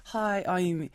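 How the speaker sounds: slowed imitation of an Australian accent; lightly put-on Australian introduction. Mimicking the actress on talk shows, Australian accent. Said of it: "with her Australian accent".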